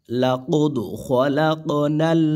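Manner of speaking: slow melodic recitation; Quran recitation. Shown as a demonstration. Teacher models the phrase for students, slow chant. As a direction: chant it slowly.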